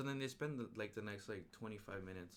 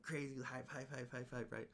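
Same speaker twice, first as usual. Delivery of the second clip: hyped; 4 semitones higher than usual. Real, not acted. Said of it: "I was just hyped".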